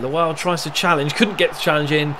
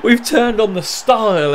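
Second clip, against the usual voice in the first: loud, high, drawn-out celebration; excited goal commentary; 7 semitones higher, 6 dB louder than usual. Real, not acted. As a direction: keep crowing over the goal, stretching the words.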